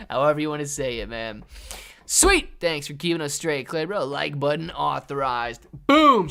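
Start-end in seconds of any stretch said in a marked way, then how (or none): 2.1-2.5 high, loud yelp of joy; excited cheer. Real, not acted. Streamer cheering a viewer's tip, high and loud. 5.9-6.3 loud, high boom; hype boom. Real, not acted. Streamer hyping the like button, loud and high.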